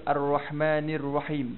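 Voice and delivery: "Ar-Rahmanir Rahim" measured, clear "i" in "nir"; careful kasrah. Shown as a demonstration. Teacher asks students to repeat, careful "nir" in "Ar-Rahmanir". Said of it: "cuba sebut".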